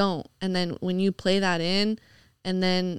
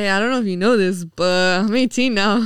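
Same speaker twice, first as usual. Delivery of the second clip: louder, rushed opener then slowed punchline; mock teen come-on; 6 dB louder than usual. Guest imitating the teen messaging her, loud mock come-on. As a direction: play a young suitor announcing himself.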